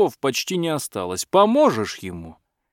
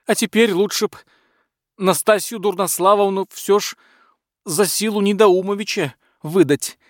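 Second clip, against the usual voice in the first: flustered butler; 8 semitones higher than usual. A narrator's reading. Butler anxiously reports the smith's new title, high and nervous.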